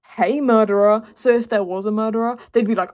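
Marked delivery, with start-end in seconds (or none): 0.1-1.0 loud mock call to an intruder; loud, playful shout-out. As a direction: call out boldly, playing at challenging someone hidden. Acts out calling to imagined murderer.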